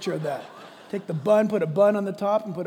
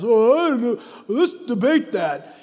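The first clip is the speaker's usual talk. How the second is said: bickering pastors; 5 semitones higher, 12 dB louder than usual. Acted. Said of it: "pastors should not bicker about this".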